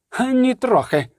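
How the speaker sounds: high, emphatic cry; excited shout. Acted. Oppenhauser retorting to doubters, excited cry. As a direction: cry it out, leaping. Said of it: "крикнув Опенхаузер".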